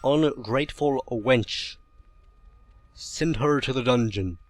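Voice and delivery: lightly voiced slow villain; a hint of a gloating mad scientist. Voices a villain in an underground lair.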